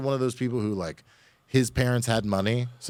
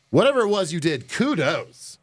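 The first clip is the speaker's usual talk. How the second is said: amazed; 9 semitones higher, 4 dB louder than usual. Real, not acted. Amazed reaction to ten grand.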